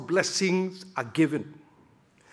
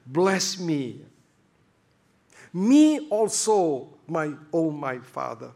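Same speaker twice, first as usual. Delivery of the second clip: pleading cry; slower than usual. Acted. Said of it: "he cried only one word".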